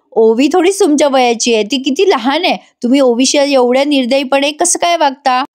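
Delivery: half-acted upset yelling at the wife; mock angry shouting. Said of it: "Sarang ओरडतच येतो". (नाराज होऊन ओरडत, उंच आवाजात)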